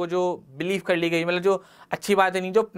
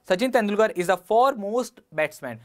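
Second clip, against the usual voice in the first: slow dictation; slower than usual. Shown as a demonstration.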